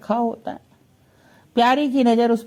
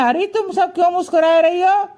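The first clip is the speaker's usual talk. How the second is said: raised, lightly voiced Krishna question; Krishna asking; 8 semitones higher, faster than usual. Krishna asking the smiling friends why, pitched-up question. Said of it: "तो श्री कृष्ण कहते हैं".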